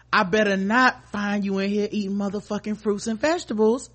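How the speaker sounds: scolding parent voice, hammed up; a pretend parent catching kids eating fruit; mock strict parent. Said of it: "being like".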